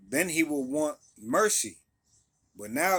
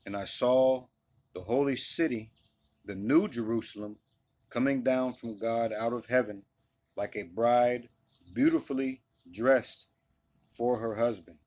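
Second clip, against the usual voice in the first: louder, deliberate reading of the verses; scripture reading; 3 dB louder than usual. Acted. Preacher reading Revelation to his listeners, steady and deliberate. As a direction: read it out like a pulpit reading.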